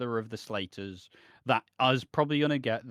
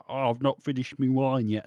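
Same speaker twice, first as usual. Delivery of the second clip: lightly put-on London voice, dropping my to me; a hint of Max's cheeky Cockney charm; mock Max accent. Max stalling so he can stay with Stacy, mock Cockney. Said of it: "I don't know why he's speaking like that".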